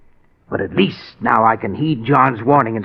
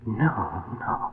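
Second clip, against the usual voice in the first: stunned denial; 3 semitones lower, 11 dB quieter than usual. Acted. Husband learns wife froze.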